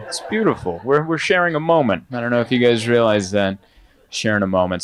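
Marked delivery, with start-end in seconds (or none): 4.1-4.8 hippy-dippy sincere. Shown as a demonstration. Comedian to the audience, lowering into a sincere hippy-dippy repeat. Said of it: "Sorry if I'm being too hippy-dippy".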